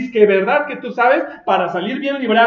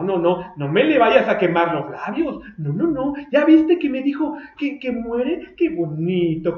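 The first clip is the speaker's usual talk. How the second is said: put-on God fussing over his child; doting God. God voiced tenderly in sermon.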